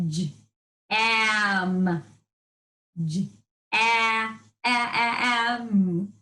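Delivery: "J-a-, a-, a-, am" with the vowel repeated; segmented word. Shown as a demonstration. Teacher stretching the vowel for the class. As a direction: pull "am" apart, repeating "a-". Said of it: "Hop on".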